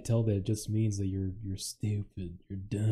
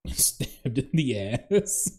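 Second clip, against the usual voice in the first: laughing disbelief; 3 semitones higher, much slower than usual. Real, not acted.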